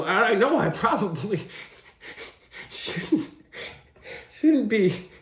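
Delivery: breaking up while voicing the umpire; laughing. Real, not acted. Mock umpire talking to a kid, breaking into laughter. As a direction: lose it to laughter between words. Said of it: "I'm sorry I'm laughing".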